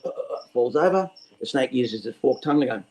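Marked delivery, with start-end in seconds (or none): 0.0-0.5 stuttering, higher little groans; brief mock collapse noises; mock dying grunts. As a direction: act out an animal keeling over. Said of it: "that animal goes".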